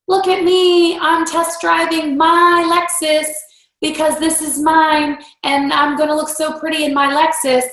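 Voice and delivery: preen like you're showing off to everyone; show-off bragging. Retold or imitated. Bragging to followers about her new Lexus, mock show-off voice. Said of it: "It's not just".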